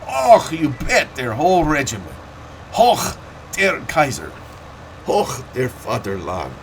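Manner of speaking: put-on German-accented cheer, high and loud, slowing on Och; crazed yell. Veteran reliving the Kaiser's review, yelling a German-accented cheer. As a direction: shout hurrah like a soldier carried away. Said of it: "and I go crazy and yell".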